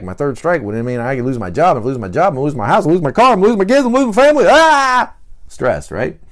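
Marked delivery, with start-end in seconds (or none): 0.0-4.5 rising higher and louder each line; mock catastrophizing building to a shriek; panic building. 4.5-5.1 high loud mock shriek; hammed-up cry of panic; panicked scream. Panic climax.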